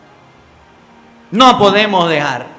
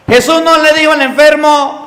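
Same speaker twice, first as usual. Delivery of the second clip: louder, higher preaching emphasis; énfasis alto; 7 semitones higher, 4 dB louder than usual. Real, not acted. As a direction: press the point to the congregation. Predicador enfatiza en sermón. (con énfasis de predicador)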